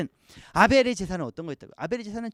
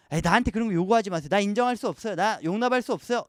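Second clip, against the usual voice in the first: dismissive refusal. Pretend. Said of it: "이렇게 이야기하는 게 가인의 태도".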